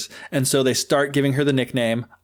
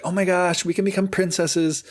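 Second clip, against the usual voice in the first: higher, gushing oh my gosh; mock excited stepsisters; 5 semitones higher than usual. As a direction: stepsisters thrilled about becoming princesses. Stepsisters freaking out, voiced.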